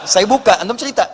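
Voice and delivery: said through a laugh. Retold or imitated. Ustadz jokes with the man, laughing. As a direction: joke while chuckling. Joking invitation to tell story.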